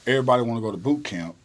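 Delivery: loud, fast drill-sergeant call. Retold or imitated. Sergeant calling inmates to line up, loud and fast. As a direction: rattle it off like a sergeant herding recruits.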